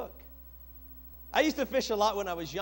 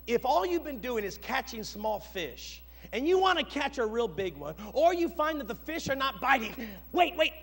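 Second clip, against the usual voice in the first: salesman pitch; 3 semitones higher than usual. Retold or imitated. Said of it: "So then they'll say".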